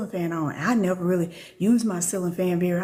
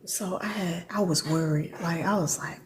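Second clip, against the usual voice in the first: real whisper so husband won't hear; 3 semitones lower, 4 dB quieter than usual. Real, not acted. Whispering so the husband in the next room won't hear. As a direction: breathe the words without voice. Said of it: "So I'm a whisper".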